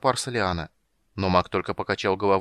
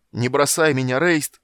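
loud cry rising high on the name; frantic shouted plea; desperate cry; 4 semitones higher, 7 dB louder, slower than usual. A narrator's reading. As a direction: beg at full voice. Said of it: "отчаянно закричал Карамон".

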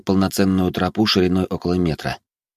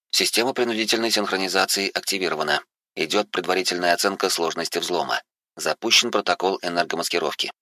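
soft, even machine announcement; lightly voiced system AI; 5 dB quieter than usual. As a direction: read it like a calm onboard computer. Implant system announces status.

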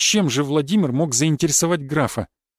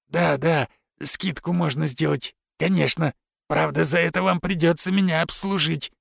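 lecherous. Acted. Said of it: "похотливо закряхтел аукционист".

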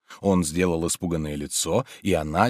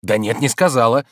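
impatient; 4 semitones higher, 7 dB louder than usual. A narrator's reading. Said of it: "с нетерпением говорил он".

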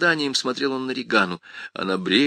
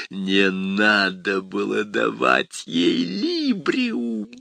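taunting demon; much slower than usual. Acted.

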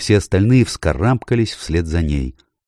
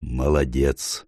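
soft praise; 4 semitones lower, 5 dB quieter, slower than usual. Acted. Aslan praises Edmund.

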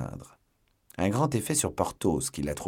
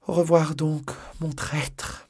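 high, playful lover's goodbye; coy farewell; 9 semitones higher, slower than usual. Acted. La procureuse dit au revoir à Porthos, taquine et aiguë. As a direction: tease him sweetly.

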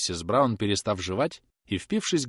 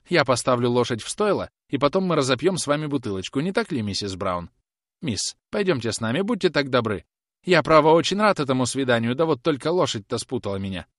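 placating; 4 semitones higher, 4 dB louder than usual. Acted. Groom placates the women.

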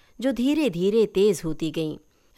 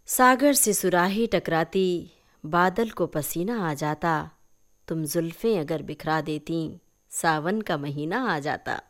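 recited love verse; 2 semitones lower than usual. A narrator's reading.

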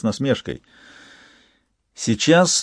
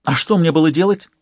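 high, louder irritated retort; snapping back; 7 semitones higher, 3 dB louder than usual. A narrator's reading. Lola snapping back at Lyonya on the phone, irritated. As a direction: snap back defensively. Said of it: "огрызнулась она в ответ".

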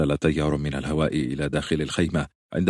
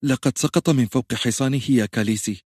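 hesitant; 6 semitones higher than usual. Acted. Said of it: "قالت جيكوي بتردد".

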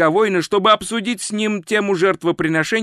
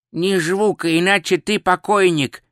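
nasal voice; 3 semitones higher than usual. Acted. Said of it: "произнёс у него над ухом гнусавый голос".

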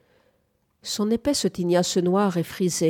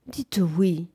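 intimate, gentle. A narrator's reading. Suitor close beside her asking for a yes, intimate and gentle. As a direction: coax her tenderly, without pushing the voice. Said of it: "extraordinairement intime et douce".

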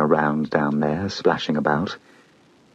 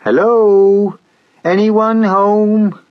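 high, slow ghostly calling; eerie high call; 14 semitones higher, 7 dB louder, much slower than usual. Acted. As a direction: call out like a ghost in an empty house.

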